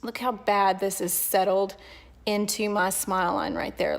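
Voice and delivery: words around a wad of gum; chewing gum. Real, not acted. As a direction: keep chewing while talking. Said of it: "sorry, I'm chewing gum".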